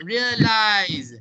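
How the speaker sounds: slow realize ending in a voiced z; clear Z sound. Shown as a demonstration. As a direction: hold the buzzing z at the end of realize. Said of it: "is pronounced with a Z sound".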